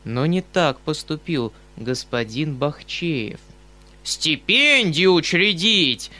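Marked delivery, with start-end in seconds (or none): 4.1-6.1 furious roar. Acted. Bakhcheev mocking Obnoskin's scholarship, slow angry roar. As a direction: roar it out in rage. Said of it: "заревел он с яростью".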